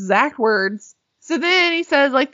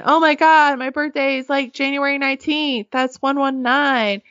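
mock screaming; 5 semitones higher than usual. Barcode guy hearing his birthday spelled out, mock screaming. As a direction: imitate a man yelling in amazement. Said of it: "barcode boy starts screaming".

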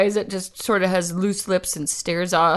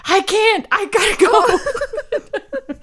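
high flustered retort; 12 semitones higher, 3 dB louder than usual. Retold or imitated. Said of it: "And I was like".

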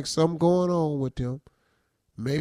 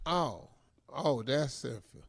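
put-on drunk sister; 3 semitones lower, 8 dB quieter, slower than usual. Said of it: "I'm the drunk sister".

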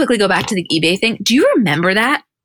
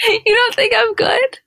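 slow, much higher, hammed-up hurt question; mock offended; slower than usual. Friend passed over for editing, mock offended. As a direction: play it wounded, half laughing.

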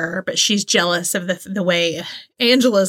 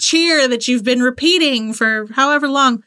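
annoyed; 6 semitones higher than usual. Retold or imitated. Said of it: "she's like".

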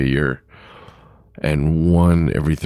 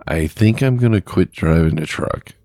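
imitated Hispanic accent, slightly raised; lightly put-on Hispanic accent, pitched up; 4 semitones higher than usual. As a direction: retell it as the Hispanic driver, accent and all. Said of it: "he's got a Hispanic accent".

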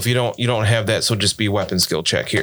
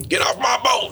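high, indignant shout; yelling; 13 semitones higher than usual. Acted. Game master voices boat crew yelling at boarders, shouting. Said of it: "immediately start putting the fire out and yelling".

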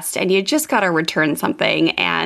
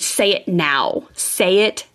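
slow, insistent mock command; demanding mom; much slower than usual. Mom to boy demanding an apology, slow insistence. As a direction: imitate a parent pressing each word.

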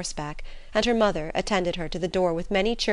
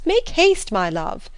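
shrill-free peak of impatience on Make haste; eager high call; 4 semitones higher, 6 dB louder, slower than usual. A narrator's reading. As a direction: Make haste cried much higher and louder. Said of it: "she was eagerly calling out".

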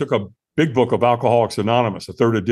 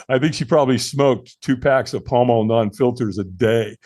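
ordinary talk

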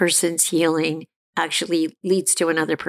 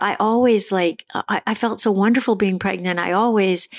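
mother's reply; 3 semitones higher than usual. Retold or imitated. Mother's self-centered reply.

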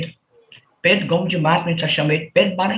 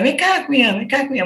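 friendly call; 6 semitones higher than usual. Retold or imitated. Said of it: "eu chamo todo mundo de cunhã".

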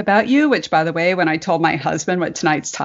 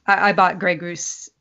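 giggling through the words; can't get it out for laughing; laughing fit. Real, not acted. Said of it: "She can't even talk".

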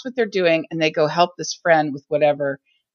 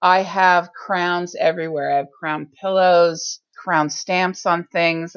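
fake Elizabethan voice. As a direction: speak like a stately Elizabethan royal. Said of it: "this fake Elizabethan voice when I talk about it".

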